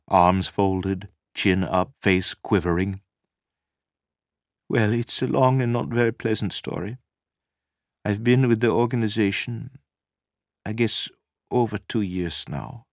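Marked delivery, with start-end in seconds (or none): 4.7-12.9 slightly higher woman's voice, holding herself together; lightly voiced upset woman. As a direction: lightly play a shaken woman telling her story. Narrator voices Nina in dialogue.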